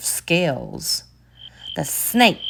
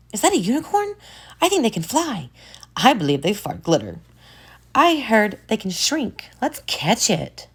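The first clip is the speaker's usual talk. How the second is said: put-on excited kids; 6 semitones higher, faster than usual. Children spotting the unicorn.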